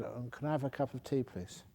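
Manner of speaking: softly, politely asking for tea; a meek polite request, fading soft. Retold or imitated. Passenger next to the rude man asks the flight attendant, politely and quietly. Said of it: "Very polite".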